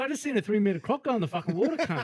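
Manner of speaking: high, loud mock outrage; incredulous protest. Arguing with mate about the croc in the water, loud disbelief. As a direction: blurt it out in disbelief, half laughing.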